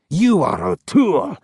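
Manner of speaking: insisting. A narrator's reading. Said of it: "insisted the ghost".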